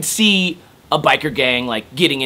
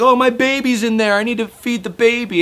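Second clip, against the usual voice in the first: high, whiny put-on woman's voice making an excuse; mocking falsetto of a woman begging; imitating a tweaker woman; 11 semitones higher, 4 dB louder than usual. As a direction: mimic a pleading neighbour spinning a lie. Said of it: "And she's like".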